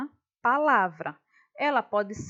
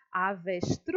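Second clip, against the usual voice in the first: Avestruz, stretching TRUZ very long; Avestruuuz, last syllable held out; stress on last syllable; 5 semitones lower than usual. Shown as a demonstration. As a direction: linger on the final TRUZ of Avestruz to show it is stressed. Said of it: "a sílaba que eu demorei mais tempo falando".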